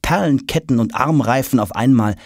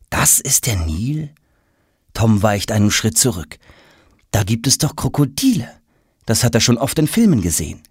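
a hint of a nervous kid; lightly voiced boy Tom. Tom warily eyeing the Nile for crocodiles.

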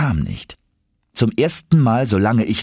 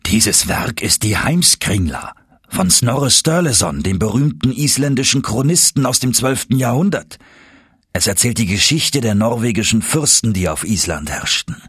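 lightly voiced old professor; 3 semitones higher than usual. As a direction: lecture the nephew with pride. Professor lectures proudly.

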